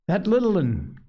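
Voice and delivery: breathless, high and shaken; gasping. A narrator's reading. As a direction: gasp it out in panic. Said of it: "gasped Piggy".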